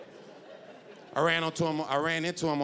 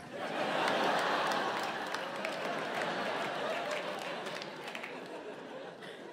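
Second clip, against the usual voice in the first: breathy laugh; 13 semitones higher, 7 dB quieter than usual. Real, not acted. Laughs at own joke.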